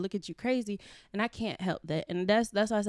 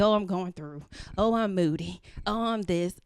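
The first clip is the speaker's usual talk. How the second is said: mocking excuses; 3 dB louder than usual. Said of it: "I'm gonna give you".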